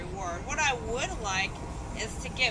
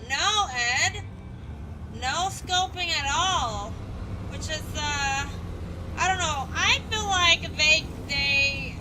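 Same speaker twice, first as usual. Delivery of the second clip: worked-up rant; 4 semitones higher, 5 dB louder, slower than usual. Real, not acted. Ranting about the game's loot.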